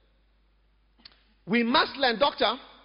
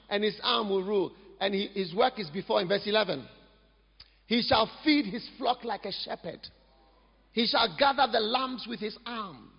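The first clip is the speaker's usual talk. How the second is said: scripture reading; 3 semitones lower than usual. Acted. Reads scripture aloud slowly.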